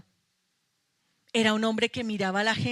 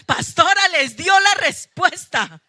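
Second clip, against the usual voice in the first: gleeful sisters; 8 semitones higher, 9 dB louder than usual. Retold or imitated. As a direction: crow it like the delighted women in the pews. Imita a las hermanas celebrando. (imitando con exageración el júbilo de las hermanas)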